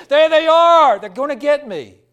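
sudden high, loud terrified cry; hammed-up dying man's scream; retold scream. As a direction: shriek it at the corner. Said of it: "he was screaming and yelling".

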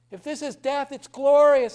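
a hammed-up deathbed shout of glory; joyful exclamation. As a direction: cry it out in rapture. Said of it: "he says".

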